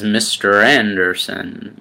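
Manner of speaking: lightly done villain impression, slow and quiet; a bad movie-villain impression, slowed and slightly menacing; Mister Smith. Matrix enemy addressing his foe, badly imitated villain voice. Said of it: "that was a terrible impression".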